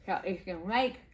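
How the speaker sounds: talking around a pin cap; mouth full. Real, not acted. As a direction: mumble with something between the lips. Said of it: "I got the pin cap in my mouth".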